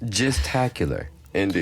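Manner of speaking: mock British accent. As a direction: put on a pompous English voice. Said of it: "a U K accent".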